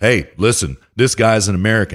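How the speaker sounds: ordinary delivery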